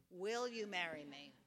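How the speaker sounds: hopeful read of the question. Shown as a demonstration. Rehearsing a proposal text, hopeful. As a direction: lean into the hope. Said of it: "More optimistic".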